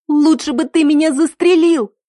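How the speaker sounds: high, loud, furious cry; a heartbroken girl yelling at her lover before a slap; shout in his face. A narrator's reading. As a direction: hurl it at him. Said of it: "выкрикнула я ему в лицо".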